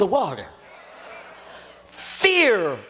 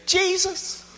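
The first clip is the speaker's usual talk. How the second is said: calling out; 7 semitones higher, slower than usual. Acted. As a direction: call out across the waves to him. Peter calls across the storm.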